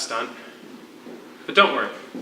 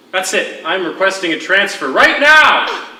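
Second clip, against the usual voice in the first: loud, higher hammed-up protest; mock indignant outburst; 6 semitones higher, 7 dB louder than usual. Prisoner mocks cellmate with a fake loud transfer demand. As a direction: play the outraged guard, over the top.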